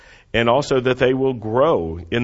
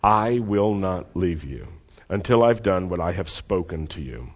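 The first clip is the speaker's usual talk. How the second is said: slow, repeated promise; 5 semitones lower than usual. Shown as a demonstration. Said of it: "Say that with me".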